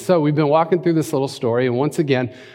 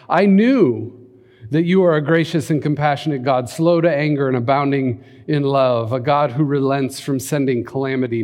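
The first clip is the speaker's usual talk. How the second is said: a preacher voicing Jonah's protest; impassioned Jonah; 3 semitones higher, 5 dB louder than usual. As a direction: read Jonah's complaint with rising heat. Jonah's bitter prayer, read dramatically.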